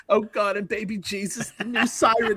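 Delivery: lightly mocked fretful old man; fussy old-man character, gently sent up; Saul Rosenberg. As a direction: imitate a whiny worrier, lightly. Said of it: "you sound like Saul Rosenberg from a prank-call comedy act".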